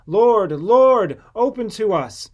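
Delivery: desperate knocking plea; pleading call. Acted. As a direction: call out through the shut door. Shut-out people knocking, pleading.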